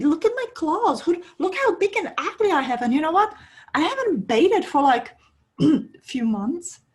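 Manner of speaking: a wolf who can't believe he's welcome; astonished wolf. Acted. Wolf amazed at her kindness.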